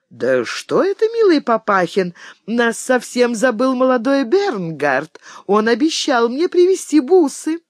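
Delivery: put-on high-pitched girlish complaint to Papa; sweet young daughter, wondering. A narrator's reading. Emma asks her father about young Bernhard, sweetly. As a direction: wonder aloud, climbing high like a girl.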